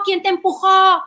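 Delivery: loud, high panicked mom act; reactive alarm. Acted. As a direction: overreact like a frantic mother. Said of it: "me pongo como loca". (alarma exagerada de mamá, aguda y fuerte)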